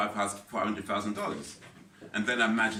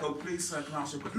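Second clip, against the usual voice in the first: softer, meek pleading; mock polite request; 3 semitones higher, 5 dB quieter than usual. Stranger politely asking courier for directions, mock meek. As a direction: ask softly, imitating a courteous stranger. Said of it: "It's not like".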